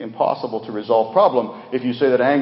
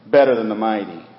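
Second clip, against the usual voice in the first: "better" hit louder than the words after it; stress on better; 4 dB louder than usual. Shown as a demonstration. Preacher shows congregation the second key phrase, stressing "better". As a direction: punch the word "better". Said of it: "I want to emphasize the word "better".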